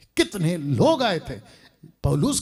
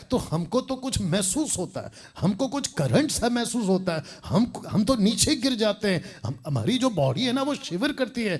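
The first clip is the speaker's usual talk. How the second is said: lightly put-on higher-pitched believer; mock gullible follower; 5 semitones higher than usual. Believers telling the pastor what they feel, lightly mimicked in higher pitch. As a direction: imitate a follower insisting they feel something. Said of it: "वो लोग अभी कह रहे होंगे".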